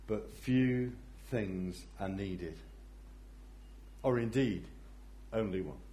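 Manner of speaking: soft and gentle. Acted. Jesus gently telling Martha what matters, soft. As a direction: gently reassure her. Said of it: "gently he says".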